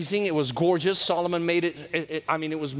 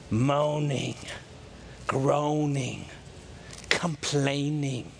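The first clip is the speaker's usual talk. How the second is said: mock complaining; 4 semitones lower, 4 dB quieter, much slower than usual. Mimicking moaning listing.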